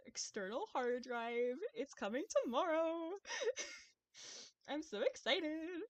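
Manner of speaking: put-on high, loud, gushing Valley Girl; Valley Girl accent. Streamer gushing over tomorrow's hard drive, Valley Girl accent. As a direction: squeal it like an excited Valley Girl. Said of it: "turn on the Valley Girl accent".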